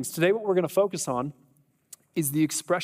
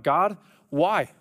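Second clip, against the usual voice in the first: anguished cry to God; 3 semitones higher than usual. Acted. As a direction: cry out to God, pitch climbing as you go. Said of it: "stopped and cried out".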